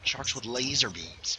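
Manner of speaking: slow movie villain quote; Doctor Evil. Acted. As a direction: draw it out like a film villain. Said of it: "Doctor Evil".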